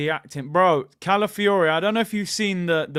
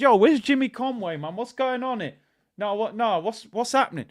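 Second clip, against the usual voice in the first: higher-pitched, wobbly Italian-American gangster attempt; bad Italian-American accent; 6 semitones higher than usual. Streamer playing at Goodfellas, badly faked Italian-American accent. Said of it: "That was crazy accent".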